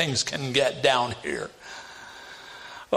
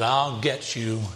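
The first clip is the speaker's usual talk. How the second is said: wicked queen threat; 4 semitones lower, 3 dB quieter, slower than usual. Retold or imitated. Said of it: "the wicked queen, said".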